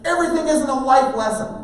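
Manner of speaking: put-on high, loud teenage protest; exasperated yell. Son protesting parent's lecturing, exasperated yell. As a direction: hurl it back at a preachy parent.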